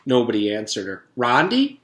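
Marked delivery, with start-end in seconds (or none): 1.2-1.8 higher, louder calling shout. Acted. Allison shouting to her best friend Rondi. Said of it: "shouted Allison".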